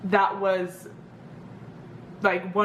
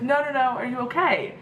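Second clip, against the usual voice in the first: imitating a worried stranger, pitch raised; retold insistent, high-voiced concern; 5 semitones higher than usual. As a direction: brush off the offer and check on them. Voicing a lady's concern.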